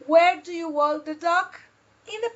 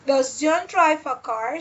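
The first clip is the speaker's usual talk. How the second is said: "Does John drive a car?" climbing on "car"; rising question intonation. Shown as a demonstration. Teacher shows how to ask, putting the intonation up. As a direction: send the pitch up on "car". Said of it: "put the intonation up".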